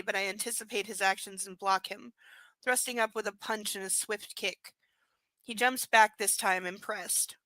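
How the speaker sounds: reading the novel aloud; lightly performed book reading; story narration. Acted.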